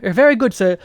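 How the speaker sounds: mock British butler. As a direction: say "very good, sir" as a polite British servant. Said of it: "Do I sound British?".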